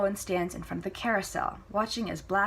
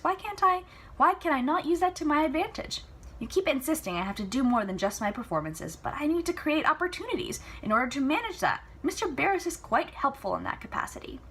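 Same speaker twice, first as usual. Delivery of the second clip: spirited Celia; 9 semitones higher than usual. Acted. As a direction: argue playfully with Papa. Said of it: "Celia insisting".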